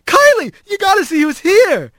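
high, eager calling out; excited yell. A narrator's reading. Mouse calling Kylie to see Rat, excited yell. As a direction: summon someone with big news, pitch soaring. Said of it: "he yelled into the foyer".

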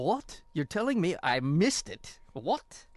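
mock Irish surprise in a bad Irish accent. Co-host mocks the Irish in a bad Irish accent. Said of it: "the worst Irish accent ever".

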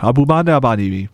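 playful Sim-style gibberish; fake foreign language. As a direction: babble it like Sims speech. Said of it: "Sim language".

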